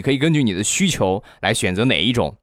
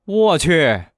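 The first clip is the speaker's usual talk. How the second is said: shocked shout; 11 semitones higher than usual. Retold or imitated. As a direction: yell it like you can't believe your eyes. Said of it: "大声地喊道". (惊讶地大声喊)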